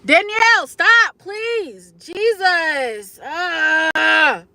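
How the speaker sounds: high, wailing plea to pull oneself together; tearful outcry. Real, not acted. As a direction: cry out high, stretching the words through tears. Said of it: "I gotta cry".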